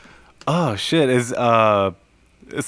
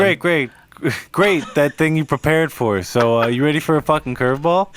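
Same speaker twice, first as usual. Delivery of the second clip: mock casting director; 3 semitones higher than usual. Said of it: "They were just like".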